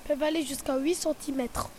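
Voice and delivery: soft close-mic crocodile voice; ASMR. Pretend. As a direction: speak softly, right in the ear. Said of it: "A S M R".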